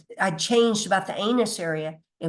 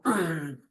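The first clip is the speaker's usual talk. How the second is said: settling hum; 3 semitones lower than usual. Retold or imitated. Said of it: "And then you go".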